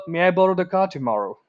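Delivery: lightly polite, quick and even; polite request. Shown as a demonstration. Example of asking dad for the car, politely. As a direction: ask politely at a brisk pace. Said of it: "you wanna sound polite".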